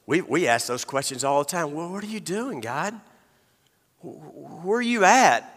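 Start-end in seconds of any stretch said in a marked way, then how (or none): 1.7-5.4 pleading to God. Acted. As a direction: call out to God in anguish. Preacher cries out to God.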